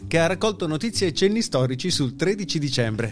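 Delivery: formal newsreader delivery over music; news read. Acted. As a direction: read it like a radio news bulletin. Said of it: "la facciamo, eh, come Dio comanda".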